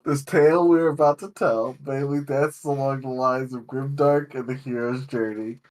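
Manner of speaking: measured, fluent prepared monologue; game master's opening speech. Real, not acted. Game master opening the session to players, prepared monologue. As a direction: deliver it as a sincere table preamble.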